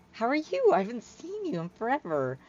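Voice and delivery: high, eager, quickening greeting; excited Hyla. Acted. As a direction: burst out with delight at an old friend. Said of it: "I was excited".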